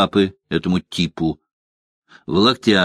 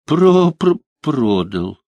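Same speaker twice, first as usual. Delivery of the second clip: stammering moan; 5 semitones higher, slower than usual. A narrator's reading. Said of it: "простонал".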